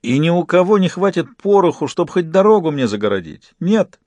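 high, challenging questions; a taunting victor daring anyone to object; mildly gloating triumph; triumphant. A narrator's reading. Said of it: "торжествующе спросил Гарри".

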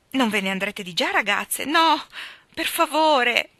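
put-on lively, light young woman's voice; a flighty girl gossiping breezily; lightly voiced chatterbox girl; chatty girl. The speaker teasing new friends.

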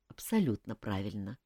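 reassuring. A narrator's reading. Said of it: "заверил его шеф".

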